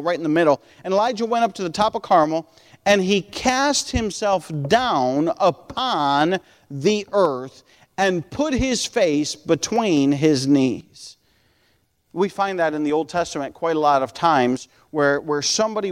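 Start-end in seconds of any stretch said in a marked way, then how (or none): 0.8-11.2 deliberate, emphatic Bible reading, slowing sharply; scripture reading. Acted. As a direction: read the verse out solemnly, stretching key words. Reads scripture aloud to congregation.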